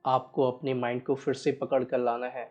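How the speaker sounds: measured, even meditation guide with long pauses; guided meditation. Real, not acted. Guiding listeners to watch each breath, unhurried meditation voice. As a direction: steadily guide listeners through breath awareness.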